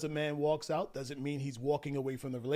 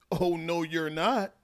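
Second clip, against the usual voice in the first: mildly raised, louder retort; acted defiance; 3 semitones higher, 5 dB louder, slower than usual. Wife objects to husband walking off, acted defiant. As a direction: push back like an arguing wife. Retelling wife's argument with husband.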